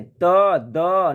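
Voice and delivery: त and द said slowly and separately, tongue on the teeth; slow letter demo. Shown as a demonstration. Teacher showing students dental sounds, slowly and carefully. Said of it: "ये दंत से उच्चारण होता है".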